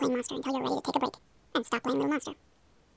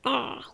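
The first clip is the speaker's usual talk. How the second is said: mock monster growl. Shown as a demonstration. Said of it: "let's see those monster teethies".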